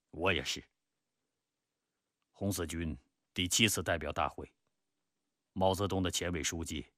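measured, self-critical recollection, below narration pitch; reflective Peng Dehuai. Acted. Peng admits to Zhou he misjudged Mao, reflective. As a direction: admit past mistakes soberly.

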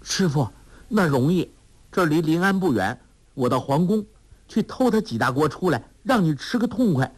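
put-on high, brisk girlish promise; Huang Rong eager. A narrator's reading. 黄蓉热心答应去皇宫偷菜，高声轻快. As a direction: cheer her master up. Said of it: "黄蓉说".

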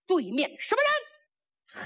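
high, drawn-out challenge; battlefield challenge. A narrator's reading. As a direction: call out to the enemy opposite. Оклик врага на поле боя.

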